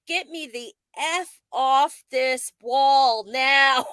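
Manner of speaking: panicked plea. Retold or imitated. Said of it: "I'm like".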